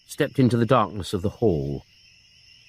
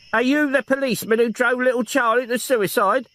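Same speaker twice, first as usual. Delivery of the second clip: put-on higher old woman's voice, accusing; accusing old aunt; 13 semitones higher than usual. Aunt confronting the detective, accusing. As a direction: confront him coldly.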